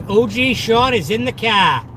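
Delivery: proud Boston accent, car without the R. Shown as a demonstration. Streamer showing viewers the accent, Boston accent. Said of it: "my Boston accent".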